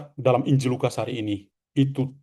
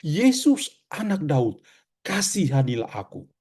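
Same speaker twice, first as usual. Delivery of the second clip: rising intonation. Shown as a demonstration. Preacher shows the blind man's rising cry, pitched up. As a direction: cry out the name, then let the plea settle. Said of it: "intonasinya semakin meninggi".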